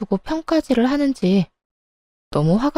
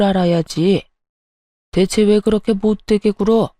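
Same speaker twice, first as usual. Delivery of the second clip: stern scolding father-in-law; 4 semitones lower than usual. Acted. Father-in-law scolding daughter-in-law, stern low voice. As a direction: lower stern voice, scolding an inferior. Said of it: "아랫사람을 혼내듯 말했어요".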